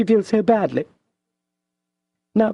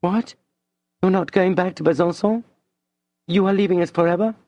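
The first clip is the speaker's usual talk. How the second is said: much higher, alarmed questions; dismayed surprise; 12 semitones higher, faster than usual. A narrator's reading. Madame shocked Julien is leaving forever. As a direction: gasp out the questions.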